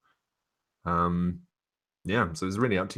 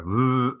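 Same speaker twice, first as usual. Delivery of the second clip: higher, louder mock whoosh; imitated phone vroom; 6 semitones higher, 7 dB louder than usual. Game master mimicking a sent text, imitated vroom.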